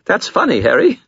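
very high forced laugh; nervous false laugh. Acted. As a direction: fake a laugh in fear. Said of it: "nervous, false laugh".

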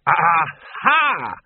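second aha with waning conviction. Acted. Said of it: "but with slightly less conviction".

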